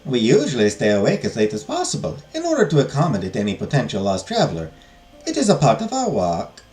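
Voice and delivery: put-on wobbly French-accented nun; French accent, badly done; attempted French accent. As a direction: try a French accent, not quite landing it. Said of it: "Trying to do a French accent".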